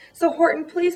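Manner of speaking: tiny mayor begging Horton for help, pleading high. Acted. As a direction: beg him in a high small voice. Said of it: "pleaded that voice of the mayor".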